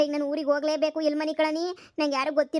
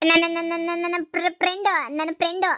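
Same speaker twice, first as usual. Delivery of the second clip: stuttered, fumbling excuse; nervous stammer; 2 semitones higher than usual. Acted. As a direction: stumble through a lame excuse.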